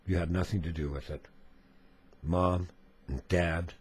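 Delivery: measured reading with emphatic openings; solemn letter reading. A narrator's reading. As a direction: read the letter aloud gravely, phrase by phrase. Reads a viewer's letter aloud.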